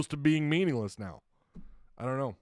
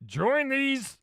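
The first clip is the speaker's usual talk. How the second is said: higher, slow cartoon dad voice; Cleveland Brown; 9 semitones higher than usual. Host reading a Discord comment as Cleveland Brown. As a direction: try out the cartoon voice. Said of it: "I'm trying to do Cleveland Brown".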